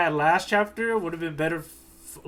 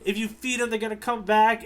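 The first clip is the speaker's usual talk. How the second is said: higher, hurried calling out to a friend; alarmed cooks; 6 semitones higher than usual. Retold or imitated. Cooks calling out to Zeph, alarmed and higher. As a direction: cooks crying out his name in alarm. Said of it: "the cooks are like".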